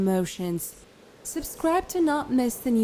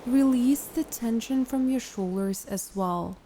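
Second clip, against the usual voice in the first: calm, unhurried guided meditation voice; 6 dB quieter than usual. Acted. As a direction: guide a listener into relaxation, leaving long pauses.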